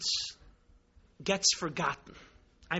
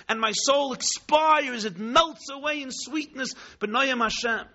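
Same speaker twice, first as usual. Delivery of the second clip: rapturous; 4 semitones higher than usual. Acted. Ecstatic climax of the vision.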